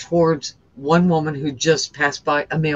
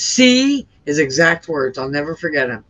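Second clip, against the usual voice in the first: a mildly raised, slowed God's voice, grieved and stern; lightly voiced disappointed God. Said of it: "and he goes".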